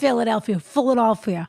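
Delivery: lightly done Philly local accent; Philadelphia accent. Shown as a demonstration. Host tries out the local accent for her co-host, Philadelphia accent. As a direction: say it like a Philadelphia native. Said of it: "I like to do accents".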